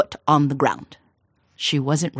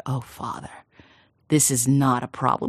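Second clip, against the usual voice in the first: calm daughter; 2 semitones lower than usual. Acted.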